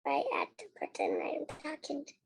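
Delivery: fast, shy whisper. Real, not acted. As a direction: whisper the words back quickly. Child repeats prompted line.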